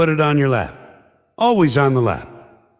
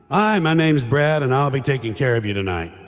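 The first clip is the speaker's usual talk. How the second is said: waiter's stock greeting. Retold or imitated. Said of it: "Always with the same line".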